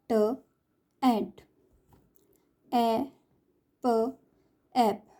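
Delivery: each sound said alone then blended, slow with pauses; phonics blending drill. Shown as a demonstration. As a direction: sound it out letter by letter, then join. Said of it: "ए फैमिली". (अक्षर-अक्षर ध्वनि जोड़कर पढ़ना)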